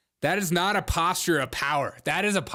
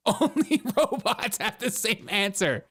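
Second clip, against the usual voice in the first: higher-pitched put-on robot voice; 4 semitones higher than usual.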